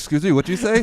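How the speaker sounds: loud, high mock exasperation; annoyed mimicry of repeated requests; imitating confused students. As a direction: play the students who can't follow you, loud and high. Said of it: "You know how annoying it is?".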